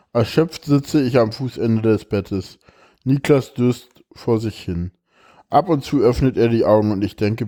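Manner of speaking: expressive reading aloud of a personal text; emotional reading. Acted. Reads a moving text aloud.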